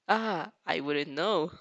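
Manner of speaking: slow, exaggerated nonchalance; hammed-up casual shrug; overly nonchalant. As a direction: shrug it off, slowly and too casually. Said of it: "he shrugs in an overly nonchalant fashion".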